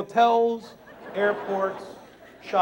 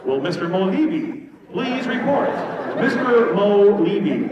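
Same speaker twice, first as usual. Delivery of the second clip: flat echoey pa page. Pretend. Mock paging announcement.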